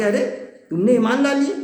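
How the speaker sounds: mildly indignant, voice lifting in disbelief; angry Pharaoh. Retold or imitated. Pharaoh confronting the magicians who believed, in mild retold anger. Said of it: "فرعون بالکل غصے میں آ گیا".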